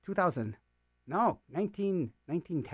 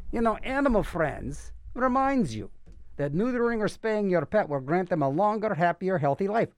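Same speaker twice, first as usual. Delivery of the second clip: announcer read; 3 semitones higher than usual. Acted. Radio host reads an Animal Friends PSA to listeners, announcer read.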